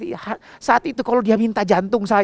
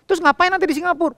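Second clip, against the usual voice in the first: put-on puzzled little girl; 12 semitones higher, 4 dB louder, much faster than usual. Daughter asking, puzzled.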